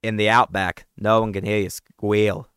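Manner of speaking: booming movie trailer tagline; horror trailer voice. Acted. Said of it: "You, you sounded like".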